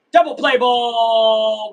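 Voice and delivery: loud, slow, stretched-out shout; long triumphant game-watching yell; excited play call. Real, not acted. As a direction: holler it, dragging out the last word. Celebrating a play live.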